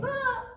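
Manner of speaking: short, high falling yelp; high cartoon yelp; high startled yelp. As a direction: yelp as you topple off. Acting Humpty's tumble off wall.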